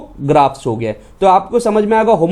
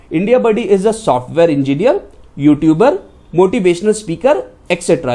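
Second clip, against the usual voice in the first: slow example read. Shown as a demonstration. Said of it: "जैसे मैं यहाँ पे एग्जांपल में लिख रहा हूँ".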